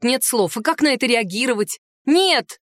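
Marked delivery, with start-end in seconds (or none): 2.1-2.6 mild bark, pitched up; a quick, higher retort in a narrated quarrel. A narrator's reading. Heroine refusing the centaur's marriage question, mildly barked. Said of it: "рявкнула я".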